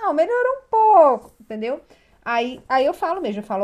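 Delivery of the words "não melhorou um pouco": high, loud, hesitant client reply; voiced client answer. Mother tells the coach it improved a little, high and loud. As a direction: play the mother admitting it only got a bit better.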